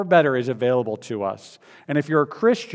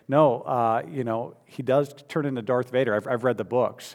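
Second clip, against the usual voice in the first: calmly. Retold or imitated. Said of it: "responded calmly".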